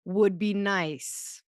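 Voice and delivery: drawn-out, casual no; slow polite brush-off. Retold or imitated. Husband gently declining the Tokyo trip, slow. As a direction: let it down slowly, lightly laughing. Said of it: "he should have said".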